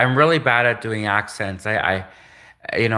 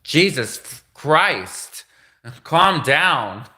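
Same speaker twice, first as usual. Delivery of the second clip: slow, drawn-out, higher-pitched mock exasperation; exasperated; 4 semitones higher, much slower than usual. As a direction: stretch it out, fed up with the caller. Acted exasperated reply to yelling caller.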